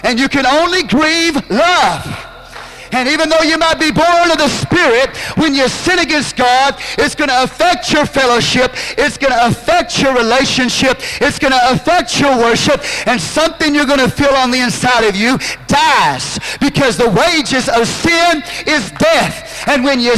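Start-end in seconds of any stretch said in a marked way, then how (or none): 0.0-2.2 slow emphatic preaching. Real, not acted. Preacher slows to drive point home. 16.6-19.6 slow preached shout. Real, not acted. Preacher proclaims key scripture line.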